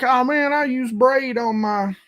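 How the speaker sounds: put-on high voice for the other guy; imitating arguing anglers. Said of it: "people there. They're like".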